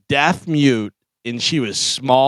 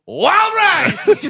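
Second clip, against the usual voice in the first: high laughing catchphrase. Real, not acted. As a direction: crack up saying it.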